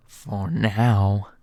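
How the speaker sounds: hint of a threat; low mysterious skeleton; Sans voice. Sans ominous reply.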